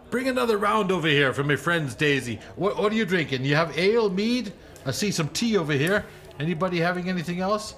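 hearty, fast-talking host; jovial hunter voice. Acted. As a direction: play the generous woodsman. Harry orders drinks for friends.

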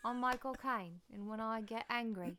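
mock Cockney film-star voice; exaggerated Cockney impression; Michael Caine. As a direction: announce yourself in a hammed-up London accent. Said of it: "It's like having Michael Caine".

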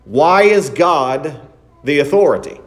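a hint of a mocking doubter; skeptic's question. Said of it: "some people might even say".

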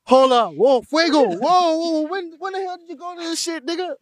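loud, startled whoa; surprised shout. Real, not acted. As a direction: shout in sudden disbelief. Spots friend at event, exclaims.

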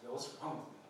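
quiet, low, rueful self-reproach; serious way. Shown as a demonstration. After breaking a promise to himself, quiet rueful self-question. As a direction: ask it of yourself in earnest regret. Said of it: "we can say it in a serious way".

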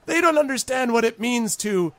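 high goblin, NEGOTIATE stretched out syllable by syllable; pompous high voice savoring a newly learned word; painstakingly rehearsed word. Acted. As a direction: pronounce negotiate very slowly and proudly. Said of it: "he's been working on this".

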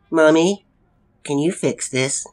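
put-on high-pitched little boy asking mummy; small child. A narrator's reading. Child asks mother for help.

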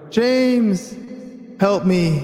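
lightly voiced lost Homer, laughing through it; a hint of Homer, giggling; Homer Simpson impression. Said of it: "that was Homer".

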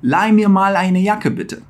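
slow softened German request; slow polite model. Shown as a demonstration. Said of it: "colocar um mal logo depois do mir".

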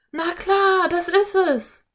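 high, loud burst of discovery; sudden excited cry. A narrator's reading. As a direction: exclaim as the answer suddenly dawns. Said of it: "rief Philipp auf einmal".

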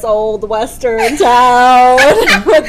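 slow, loud cowboy drawl. Pretend. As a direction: swagger in slowly like a gunslinger. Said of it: "acting clue in Heads Up".

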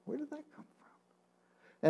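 high, soft, astonished question; puzzled wonder. Retold or imitated. Finding the verse in his Bible, high and amazed. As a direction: lift it way up in disbelief. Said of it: "I'm thinking".

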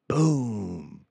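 drawn-out, falling "boom"; mock crash sound. Imitates a crash in a story.

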